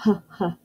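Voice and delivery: H as breathy repeated "huh, huh"; letter sound. Shown as a demonstration. Teacher helping kids write H, puffed "huh" sounds. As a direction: puff out the sound of H before naming it. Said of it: "start with the first sound".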